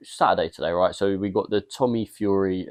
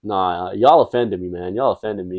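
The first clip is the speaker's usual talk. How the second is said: put-on American accent. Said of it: "Your accent's on point".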